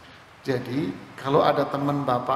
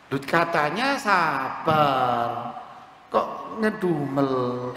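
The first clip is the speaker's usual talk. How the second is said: slow mock scolding; teasing; much slower than usual. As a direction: poke fun at the grumbler. Mocking grumbler.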